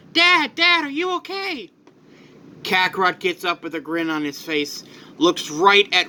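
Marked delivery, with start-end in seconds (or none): 0.1-1.7 put-on high, worried young boy voice, much higher; a kid calling out to his dad in alarm; Gohan. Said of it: "Gohan runs over".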